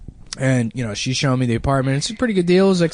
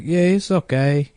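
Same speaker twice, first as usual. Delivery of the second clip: put-on drawn-out, casual Mexican-accented brush-off; lightly imitated Mexican landlord, unbothered; 3 semitones higher, slower than usual. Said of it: "like, Mexican guy showed me the place".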